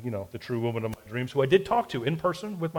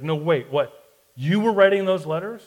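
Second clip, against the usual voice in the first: mock disbelief; 4 semitones higher, 5 dB louder than usual. Friend suddenly insists, rising.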